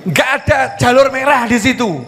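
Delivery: challenging wife. Acted. Acted wife disputes traffic excuse.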